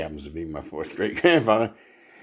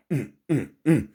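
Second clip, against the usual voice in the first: short imitated "mm" grunts in march step; 5 semitones higher than usual. Comic telling of a lion marching through the jungle, rhythmic grunts. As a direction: grunt along like a strutting lion.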